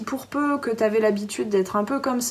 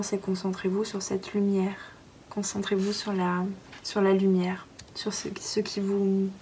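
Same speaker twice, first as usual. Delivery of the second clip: hushed whisper; 5 dB quieter than usual. Real, not acted. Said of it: "j'en ai des frissons".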